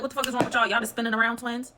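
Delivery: exasperated what-the-heck; incredulous outburst. Retold or imitated. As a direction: react like you can't believe your eyes. Mocking both fighters' spinning.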